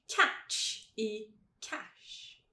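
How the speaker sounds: very slow "Catch e cash", ending CH then SH; tch against sh. Shown as a demonstration. Teacher contrasting two sounds, "Catch e cash" drawn out. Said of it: "vamos colocar esses dois sons".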